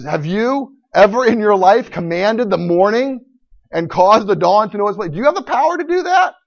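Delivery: overwhelm him with God's power; God's booming voice. Acted. Preacher voices God to Job.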